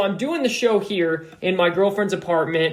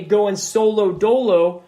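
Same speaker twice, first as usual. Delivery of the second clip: catchphrase; 4 dB louder, slower than usual. Retold or imitated. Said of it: "And then I say".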